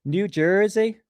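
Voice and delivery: put-on high-pitched botched New Jersey accent; bad New Jersey accent. Host reading out where the photo was taken, bad New Jersey accent. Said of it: "That's a shit accent I just did".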